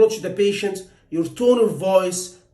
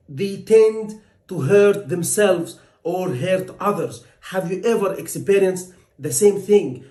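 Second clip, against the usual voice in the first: gentle third-person approach. Shown as a demonstration. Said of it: "I'm gonna say".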